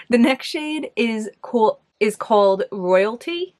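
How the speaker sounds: slow, drawn-out New York accent. Real, not acted. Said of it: "My New York accent was coming out there".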